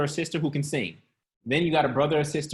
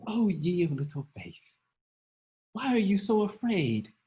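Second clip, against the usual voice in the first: mock poetic Jesus; 4 semitones higher than usual. Shown as a demonstration. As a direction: read it like a stained-glass saint. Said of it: "No, that's not how he said it".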